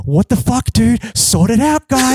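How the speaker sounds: hammed-up telling-off of the guitarist; mock angry yell at bandmate. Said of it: "So I'm like".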